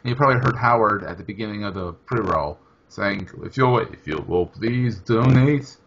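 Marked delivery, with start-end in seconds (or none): 3.4-5.8 lightly imitated fancy radio announcer, slow; a slow, mock-smooth hint of an announcer read; Howard's radio announcer voice. Co-host teasing Howard's pre-roll donation plea, mock announcer. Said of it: "in my fancy radio announcer voice".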